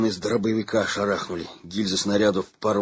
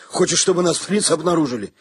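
higher, angry scolding yell; angry roar; 8 semitones higher, 4 dB louder than usual. A narrator's reading. Shcherbak yelling at Gromykhalo for shooting, angry. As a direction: tear into him for the noise. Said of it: "заревел Щербак".

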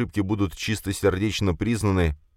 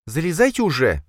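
hissed; 11 semitones higher, 3 dB louder than usual. Acted. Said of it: "прошипела Сёкол".

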